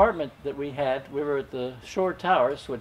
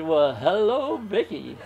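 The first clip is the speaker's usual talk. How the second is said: laughing; 3 semitones higher, slower than usual. Real, not acted. Greeting new blonde wife, laughing.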